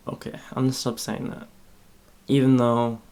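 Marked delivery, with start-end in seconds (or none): none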